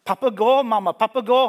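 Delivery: high, loud joyful shouting; excited children. Acted. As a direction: shout the news to mother.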